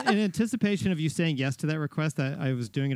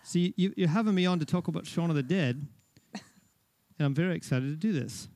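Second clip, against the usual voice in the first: lightly put-on British accent; playful attempt at British speech; fake British accent. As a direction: keep up the mock British, measured and polite. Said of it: "with a fake British accent".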